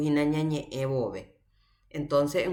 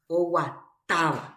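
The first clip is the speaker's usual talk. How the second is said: "Oguatáva" split before a stressed TA. Shown as a demonstration. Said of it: "A ári avei hatãve ñapronuncia". ("Oguatáva" marcando la sílaba TA)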